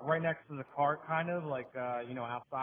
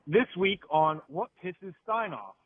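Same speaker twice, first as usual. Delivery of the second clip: loud, slow segment intro; segment announcer; 9 dB louder, slower than usual. Acted. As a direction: announce the title big and drawn out. Announces his own segment title.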